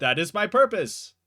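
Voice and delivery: talking rock. Acted. Rock answering the one who threw it, talking rock. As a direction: declare it as an enchanted rock. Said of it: "you hear from the rock".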